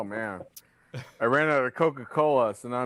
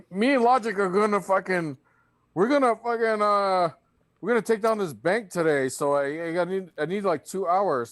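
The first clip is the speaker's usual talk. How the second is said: put-on higher, eager kid voice, a little over the top; imitating his excited son; 7 semitones higher than usual. Dad mimics his son announcing a bank heist, eager kid voice. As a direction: play the keen kid who has big plans.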